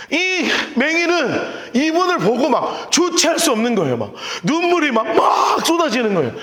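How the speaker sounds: normal talking voice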